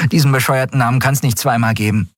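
put-on high street-kid girl voice; lively young girl, matter-of-fact. A narrator's reading.

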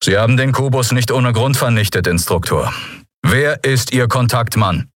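cool interrogation with an edge; cool and sharp. Acted. Admiral interrogating his old mentor, cool and sharp. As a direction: question him coolly and sharply. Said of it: "kühl und scharf wie ein Sakedo".

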